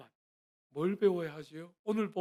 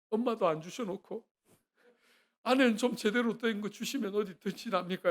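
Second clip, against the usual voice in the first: complaining prayer; 3 semitones higher, 3 dB louder than usual. Retold or imitated. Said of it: "막 울면서 기도했어요".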